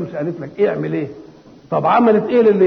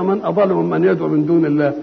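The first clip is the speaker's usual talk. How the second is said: musing to oneself. Shown as a demonstration. A preacher tells the listener to search himself, musing. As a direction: ponder the question inwardly. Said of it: "دور أنت كده".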